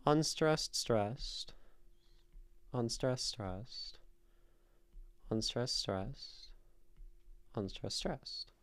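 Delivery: rhythmic demonstration of "unstressed, stressed" as a falling chant; iambic beat. Shown as a demonstration. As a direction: alternate "unstressed, stressed" in even pairs with pauses between. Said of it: "So it goes".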